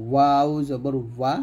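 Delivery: slow "ওয়াও জবর ওয়া" with rounded lips; slow letter demo. Shown as a demonstration. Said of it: "দুই ঠোঁট গোল করে". (ঠোঁট গোল করে ধীরে "ওয়া")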